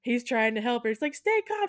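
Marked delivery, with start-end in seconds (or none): 1.2-1.7 high-pitched imitation of a husband; mock urgent reassurance. Husband trying to help his wife, high mock urgency. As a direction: urge calm in a high mock voice.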